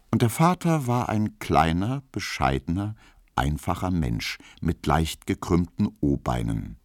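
ordinary delivery

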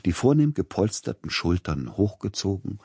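plain reading voice

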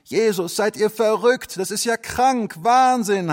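high, loud appalled exclamation; shocked cry. Acted. Neighbours seeing the boarded-up church, loud shocked cry. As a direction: gasp it out in horror. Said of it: "haben die Nachbarn gerufen".

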